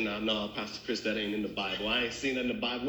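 low mock voice of a doubting listener; doubting churchgoer. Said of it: "Somebody say".

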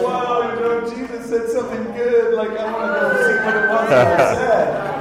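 high, loud burst of wonder; amazed excitement. Retold or imitated. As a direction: blurt it out, thrilled and curious. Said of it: "And I was like".

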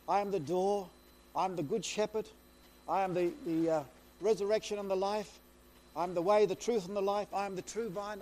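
each "I am" rung out loud; full-voiced preaching of the "I am" sayings; preaching at full force. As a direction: proclaim every line like a call. Proclaims the I am sayings.

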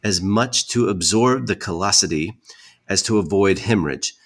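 haughty formal retort; dramatic letter reading. Acted. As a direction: read a combative old reply aloud. Reads reply letter aloud.

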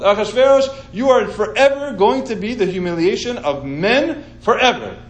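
hammed-up, insistent doom prediction; mock alarm. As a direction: play the panicked adviser warning the king. Adviser acts out dire warning to king.

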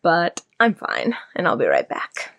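faint and lightheaded, pushing through; a little woozy, needs a break. Real, not acted. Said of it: "feeling a little lightheaded".

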